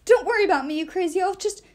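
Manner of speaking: high, loud melodramatic farewell; a theatrical goodbye from a wounded dwarf; hammed-up dying dwarf. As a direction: play the brave last words.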